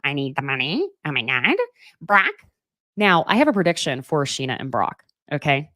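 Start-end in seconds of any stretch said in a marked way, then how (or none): 0.0-2.3 rushed, fretful imitation with rising line ends; mock spiraling. Woman panics to Brock about money, mock spiraling. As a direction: mimic someone spiraling, words tumbling out, voice sliding upward. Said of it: "Sheena is spiraling like".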